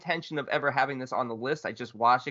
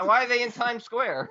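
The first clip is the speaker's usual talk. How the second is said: high, laughing disbelief; cracking up while asking; laughing question; 10 semitones higher, 3 dB louder than usual. Real, not acted. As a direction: ask it through laughter, amused. Laughing incredulous repeat.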